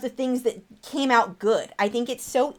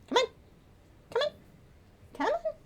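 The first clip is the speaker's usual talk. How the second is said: short high calls to a pet; high coaxing call; 6 dB quieter, faster than usual. Real, not acted. Owner calling her bird back, high coaxing. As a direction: coax the bird in little high chirps.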